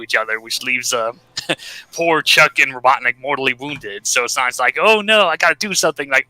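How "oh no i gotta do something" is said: higher-pitched pretend worry; a cartoon hero lightly playing at alarm; mock urgent dismay. Sonic seeing Chuck and Robotnik wounded, mock dismay.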